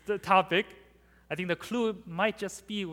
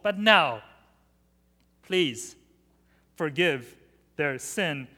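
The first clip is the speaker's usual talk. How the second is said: fervent plea; 6 dB louder than usual. Acted. Moses interceding loudly before God.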